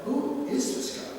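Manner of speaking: high, incredulous "who is this guy"; baffled mock disbelief. Officials reading Fields' letter, mock high-pitched disbelief. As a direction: play the baffled official, voice jumping up.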